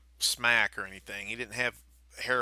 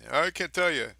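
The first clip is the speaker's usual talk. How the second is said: mocking mimic of an evasive guest; lightly put-on voice, a bit higher; cagey talk-show guest; 4 semitones higher than usual. Host mocking every Talking Dead guest, cagey mimicry. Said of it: "Now you sound like every guest".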